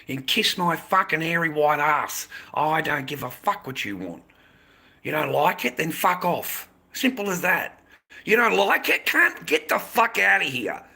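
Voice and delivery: loud, rising to a high yell; furious shout. Real, not acted. Streamer yelling at the chatter Grant, furious shout.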